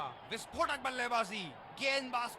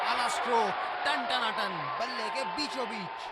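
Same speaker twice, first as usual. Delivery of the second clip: loud punchy exclamation; excited commentary; 2 semitones higher, 4 dB louder than usual. Acted. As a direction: hail the shot loudly. Co-commentator hails a stroke.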